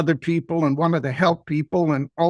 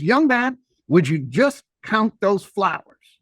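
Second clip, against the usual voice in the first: higher, slower lady's voice, a touch firm; insistent lady; 3 semitones higher, slower than usual. Retold or imitated. The lady insisting the boy count his flowers, higher and slower. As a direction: press the boy gently to count them.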